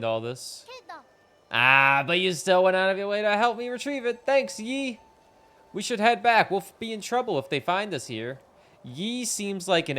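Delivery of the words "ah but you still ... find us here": lightly voiced caring friend; gentle, a bit higher friendly girl; caring villager voice. Reads game character lines.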